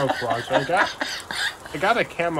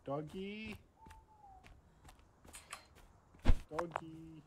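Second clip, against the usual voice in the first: soft coaxing; 19 dB quieter, much slower than usual. Acted. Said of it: "talking to him like a mother".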